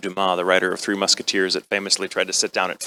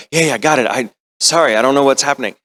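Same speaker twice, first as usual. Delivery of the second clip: mildly flustered, higher reply; retold flustered actor, pitched up a little; flustered apology; 3 semitones higher, 4 dB louder than usual. Actor apologizing to the director in the booth, flustered.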